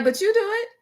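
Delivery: put-on high, fast childish talk-back; mock child voice arguing with mom; sassy kid. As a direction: squeak back at mom like a smart-mouthed kid. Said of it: "And I was like".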